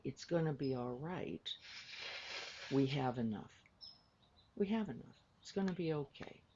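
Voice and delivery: gentle, soothing comfort; calm a worried mother softly; reassuring. Retold or imitated. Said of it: "I touch her and say".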